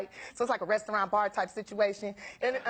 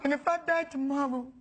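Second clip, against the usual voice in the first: earnest suitor; 2 semitones higher than usual. Retold or imitated. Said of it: "he's like".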